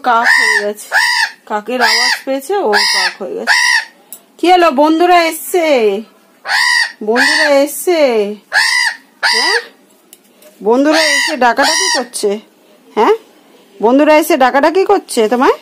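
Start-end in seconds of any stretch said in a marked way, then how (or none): 4.4-15.6 chirpy sing-song talk to a pet; high pet talk. Real, not acted. Talking to her cawing bird, high pet talk.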